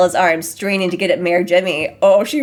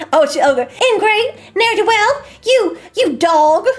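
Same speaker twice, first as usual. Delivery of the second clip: words pushed out through laughter, high and slow; cracking up mid-line; laughing while reading; 11 semitones higher, 4 dB louder, slower than usual. Real, not acted. Streamer reading Lulu's insults, laughing through them.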